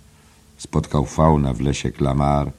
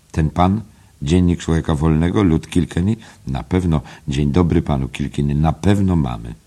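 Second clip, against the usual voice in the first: a touch raised, obliging; smooth eagerness; 3 semitones higher than usual. Acted. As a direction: serve the visitor with smooth zeal. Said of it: "przemówił z gładką gorliwością".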